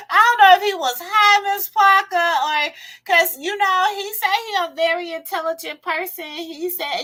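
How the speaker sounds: high, loud, laughing through the words; reading the comment while cracking up. Real, not acted. Reads a viewer's comment aloud.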